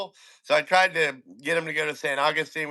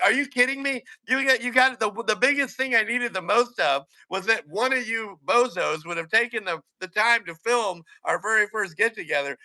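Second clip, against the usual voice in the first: incredulous; 4 semitones higher than usual. Retold or imitated. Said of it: "I'm like".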